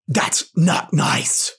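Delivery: slow, drawn-out scolding; demonstrated anger, each word weighed slowly; angry. Shown as a demonstration.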